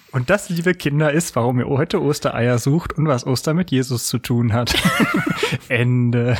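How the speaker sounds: measured fairy-tale read-aloud; mock storybook reading. Podcaster fakes a children's Bible reading for listeners, mock storybook voice. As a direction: read it out like a children's story, lightly tongue-in-cheek. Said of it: "in meiner schlechten Vorlesenstimme".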